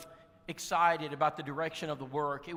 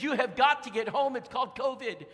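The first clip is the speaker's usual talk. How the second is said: imitating sister, higher and louder, pressing hard; urgent sister; 6 semitones higher, 5 dB louder than usual. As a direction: insist he gets home right now. Sister insists he come home.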